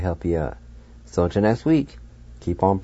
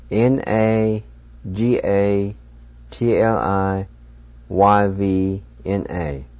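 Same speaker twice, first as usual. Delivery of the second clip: spelled out; slower than usual. Shown as a demonstration. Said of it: "and it's spelled".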